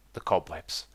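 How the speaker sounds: a hammed-up low voice taking offence; mock deep voice. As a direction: answer yourself in a low, grumbly aside. Mock reply to own suggestion.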